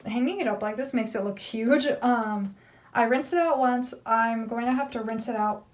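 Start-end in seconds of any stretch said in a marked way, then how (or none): 3.0-3.9 speaking through hiccups; hiccuping between words. Real, not acted. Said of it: "Sorry, I have the hiccups". 4.1-5.6 speaking through hiccups; hiccuping between words. Real, not acted. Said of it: "Sorry, I have the hiccups".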